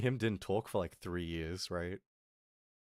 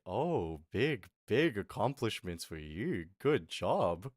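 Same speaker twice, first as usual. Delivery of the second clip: slow, drawn-out mock congratulations; sarcastic praise; slower than usual. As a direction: taunt with deliberately unimpressed praise. Retold taunting of boasting brother.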